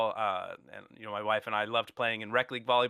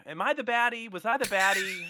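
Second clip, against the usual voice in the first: high, half-joking worried question; mock self-doubt; 8 semitones higher than usual. Looking back on old pranks, wondering aloud with light mock worry. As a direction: lightly ask yourself if you were the villain. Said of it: "it's like".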